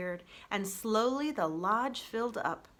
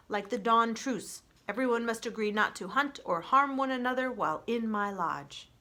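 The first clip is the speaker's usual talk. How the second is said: calm robot voice; 3 semitones higher than usual. Acted. Roz the robot proposing peace to the animals, even robot voice. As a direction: speak like a steady, gentle machine.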